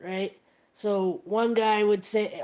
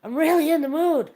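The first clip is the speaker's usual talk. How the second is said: higher, louder, a put-on suggestive voice; sultry comic line; 7 semitones higher, 5 dB louder than usual. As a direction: purr "I'm really in the mood" as a punchline. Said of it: "And he goes".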